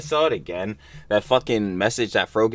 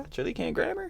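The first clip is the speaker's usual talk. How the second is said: squeaky self-mockery; 7 dB quieter than usual. Real, not acted. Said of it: "I can't even talk".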